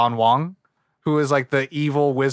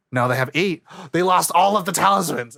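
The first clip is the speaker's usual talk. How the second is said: mock dismay; 4 semitones higher than usual. Retelling a cartoon's setbacks as a shocked viewer, mock dismay. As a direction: gasp and raise the alarm, higher on the second sentence.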